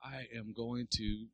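soft, slow tired threat under the breath; muttered threat. Retold or imitated. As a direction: grumble it half-asleep. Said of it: "I'm like".

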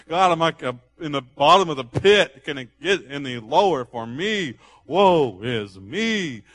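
mild mock lament, very slow at the end; David voiced lamenting at the bottom of the pit; down in the dumps. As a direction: drag out woe is me in a hammed-up sigh. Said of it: "he was so down in the dumps".

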